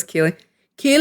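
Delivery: put-on "Keely" said as the character's accent has it; imitated "Keely". Fan showing how he says "Keely", accent imitation. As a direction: mimic his British-accented "Keely". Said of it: "I love how he says".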